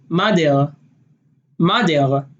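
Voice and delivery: "madel" with A and D for mother; Israeli mother as madel. Shown as a demonstration. Showing how Israelis say mother, as madel. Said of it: "instead of it being mother".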